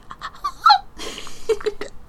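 high-pitched wordless squeal, falling away; imitated swooning squeal. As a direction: mimic going weak at a voice, very high. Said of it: "I would literally just be like".

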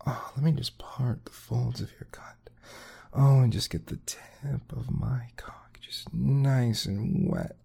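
breathy intimate whisper, quick. Acted. To his partner, hungry whisper. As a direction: lean in and whisper the want.

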